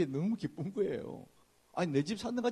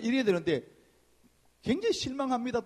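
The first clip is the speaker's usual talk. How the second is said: normal talking voice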